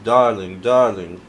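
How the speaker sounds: half-hearted British accent on "darling"; attempted British accent. Shown as a demonstration. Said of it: "only thing I know about British accent is darling".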